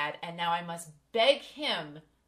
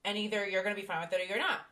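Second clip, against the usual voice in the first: defiant; 3 dB louder, faster than usual. Retold or imitated. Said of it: "So it's like".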